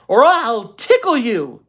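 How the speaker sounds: slow, high, teasing threat; sly threat. A narrator's reading. Beezus threatens Ramona with tickling, slow and sly. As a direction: dangle the tickle like a trump card. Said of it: "Then she had an inspiration".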